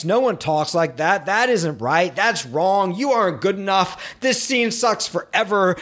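sneering inner critic, mocking every word; the writer's harsh inner censor mocking the draft, sneering. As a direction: tear your own writing apart like a scornful critic. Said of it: "If you're feeling censored, you know what I mean".

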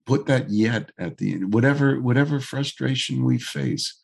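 hoarse, froggy voice; gravelly voice. Real, not acted. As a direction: talk through a rough throat. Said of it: "you're very froggy".

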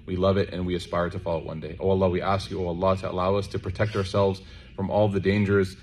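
even, steady supplication on a narrow pitch; closing prayer. Real, not acted. Preacher asking Allah to protect the congregation's hearts, earnest prayer. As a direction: recite a congregational dua in a low-key, continuous flow.

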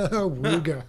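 laughing horn call "Awooga"; ahooga horn. Pretend. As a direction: honk it out through a laugh.

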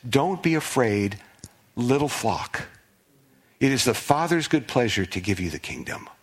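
tender tone. Pretend. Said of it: "hear the tone".

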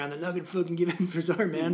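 fast, lazy stoner guy. Shown as a demonstration. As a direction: play it like a stoner dude. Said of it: "I sound like the stoner guy".

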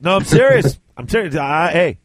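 lightly put-on drunken Southern accent; imitated Southern accent. Drunk friend persuading host to take sponsorship, mock Southern accent. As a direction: imitate a drunk who has turned Southern. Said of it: "he came up with a Southern accent".

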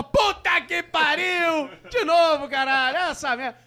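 high, slow outraged yelling; angry wife. Retold or imitated. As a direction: play the exasperated wife blowing up. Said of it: "imagina a briga da mulher".

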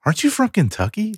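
high-pitched retold disbelief; imitating a confused reaction; puzzled question. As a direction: ask it high, mock baffled. Retelling his puzzled reaction to her.

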